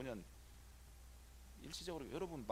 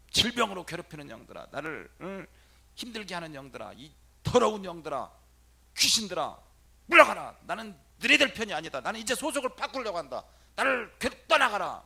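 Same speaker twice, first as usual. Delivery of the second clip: loud, higher commands to spirits; commanding exorcism shout; 5 semitones higher, 10 dB louder than usual. Shown as a demonstration. Priest shouting the exorcism prayer at spirits. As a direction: drive the spirits out.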